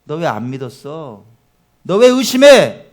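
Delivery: slow, rising to a loud reproach; Jesus rebuking. Acted. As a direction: chide the disciple slowly. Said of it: "한 말씀 하시는".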